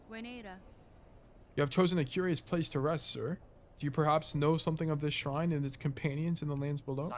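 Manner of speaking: an English caretaker voice, roused and cross; English accent, telling off an intruder. Acted. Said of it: "why do I, like, shift into a, an English accent?".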